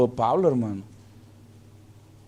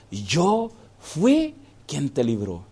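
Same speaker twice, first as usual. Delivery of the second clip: solemn voice of God; 3 semitones lower, 4 dB quieter, much slower than usual. Acted. God's voice speaking to soldier.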